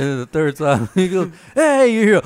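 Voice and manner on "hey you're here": loud, high mock "gotcha" yell; imitated startling shout. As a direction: shout it to make dad jump, retold. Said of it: "kept scaring the fuck out of his dad".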